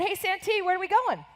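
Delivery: a lightly voiced anxious kid; calling to the guide as a child, mildly uneasy; worried kid calling out.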